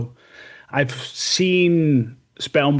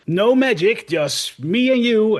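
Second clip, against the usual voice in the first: orc voice; 5 semitones higher than usual. Retold or imitated. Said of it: "one of the orcs says".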